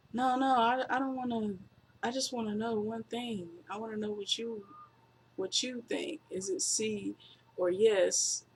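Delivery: mock-gentle wrestler question; Big Show voice. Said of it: "Big Slow's like".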